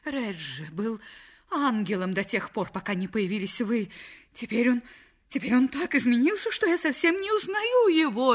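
tearful lament climbing high; halting, increasingly distraught complaint; sobbing. Acted. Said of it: "И с рыданиями она". (плаксиво, срываясь на рыдания)

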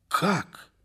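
high, drawn-out disbelief; astonished exclamation. A narrator's reading. Зеленков hears astonishing news from Фомушка, astonished exclamation. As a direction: exclaim in amazement, pitch leaping up. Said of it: "воскликнул он".

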